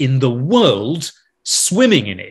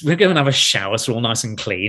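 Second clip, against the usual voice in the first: ordinary talk, nothing marked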